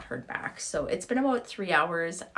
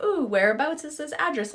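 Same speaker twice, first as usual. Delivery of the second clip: excited; 8 semitones higher, 4 dB louder than usual. Retold or imitated. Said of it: "So I was like".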